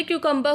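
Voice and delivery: "क्यूकम्बर" said as kyoo-kum-ber; pronunciation demo. Shown as a demonstration. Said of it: "pronunciation पे ध्यान दे". ("क्यूकम्बर" को क्यू-कम्-बर बोलें)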